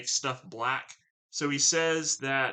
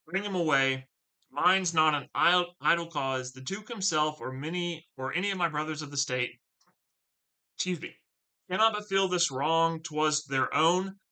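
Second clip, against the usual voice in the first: a lightly voiced outraged senator, slightly raised; indignant Brabantio; 2 semitones higher than usual. Brabantio insisting on bringing Othello to the Duke, mild outrage.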